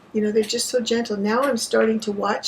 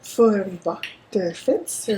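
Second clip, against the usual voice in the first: For en vakker genser said slowly through a laugh; slow Norwegian For en vakker genser, laughing; laughing pronunciation; slower than usual. Shown as a demonstration. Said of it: "One more time".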